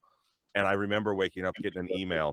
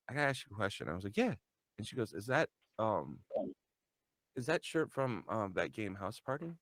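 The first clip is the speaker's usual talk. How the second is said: retold awkward hesitation; 9 dB quieter than usual. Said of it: "she was being weird around me".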